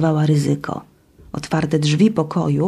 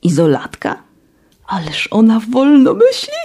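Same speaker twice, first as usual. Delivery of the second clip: giggling; 4 semitones higher than usual. Acted. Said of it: "zachichotała Zuta".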